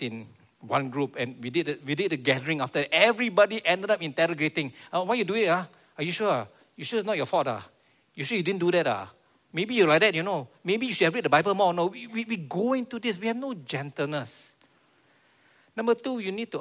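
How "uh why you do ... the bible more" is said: loud, pushy grilling of a friend; mock interrogation. Group grilling a member about fault, accusing pushy interrogation. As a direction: nag and accuse, louder.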